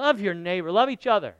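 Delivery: full-voiced booming declaration. Shown as a demonstration. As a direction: boom it out to the room. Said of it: "In that big booming voice of yours".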